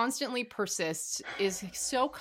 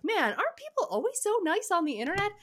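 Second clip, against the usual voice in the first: sarcastic; 11 semitones higher, faster than usual. Retold or imitated. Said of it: "astutely was like".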